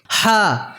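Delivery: "হা" with the H of English "hand". Shown as a demonstration. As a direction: say "হা" starting with the h heard in hand. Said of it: "হ্যান্ড শব্দের যে এইচ আছে তার মতোই উচ্চারণ". ("হা", হ্যান্ড শব্দের এইচের মতো উচ্চারণে)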